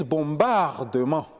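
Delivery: put-on "bombardement" in a Gabonese accent, every syllable sounded; Gabonese-style "bombardement", middle drawn out; accent gabonais. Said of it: "Vous entendez par exemple les Gabonais dire". (« bombardement » avec l'accent gabonais)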